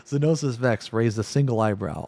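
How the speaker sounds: plain reading voice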